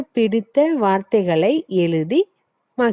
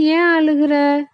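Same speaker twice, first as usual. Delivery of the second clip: brinjal's voice; 7 semitones higher than usual. Acted. Brinjal asks the crying boy why, high cartoon voice. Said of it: "கத்தரிக்காய் பார்த்து".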